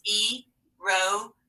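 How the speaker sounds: slow syllables. Shown as a demonstration. Teacher splitting the word for students, slow. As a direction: split slowly into beats. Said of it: "separate the syllables".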